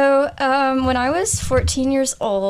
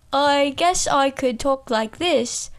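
London accent. Shown as a demonstration. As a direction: try out a London voice, unhurried. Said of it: "which might be more so London".

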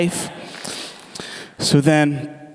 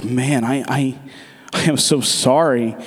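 low, hesitant, softened condolence; retold sympathy; 4 semitones lower than usual. Passenger consoling a driver whose wife left, low hesitant sympathy. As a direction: stumble gently into a subdued apology.

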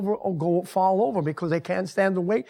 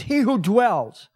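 drawn out and stressed; slow preacher's emphasis; slow emphatic reading; slower than usual. Shown as a demonstration. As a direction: lean on each word of scripture. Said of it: "I want to repeat this".

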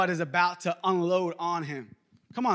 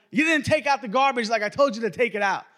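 raised-pitch parental nagging, lightly acted; scolding parent; 4 semitones higher, 4 dB louder than usual. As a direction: tell off a kid over a chore. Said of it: "my parents used to".

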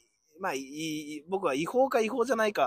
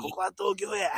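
a light Kansai accent, lightly imitated; mock Kansai dialect; 3 semitones higher than usual. Teasing his partner by imitating a Kansai guy in lightly put-on Kansai dialect. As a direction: tease it in a hint of Osaka dialect. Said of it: "よく関西人が東京来ても関西弁で喋って".

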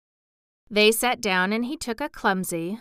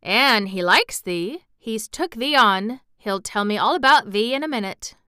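put-on friendly moor boy; 5 dB louder than usual. Voices Dickon reassuring Mary.

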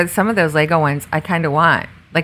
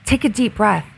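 put-on high, childlike voice of a small boy calmly soothing mom; little son; 7 semitones higher than usual. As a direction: play a little kid gently coaching his mommy to calm down. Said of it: "He goes".

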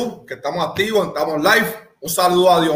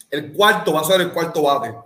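talking while chewing; words round a bite of food; mouth full; 2 semitones lower than usual. Real, not acted. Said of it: "estoy comiendo".

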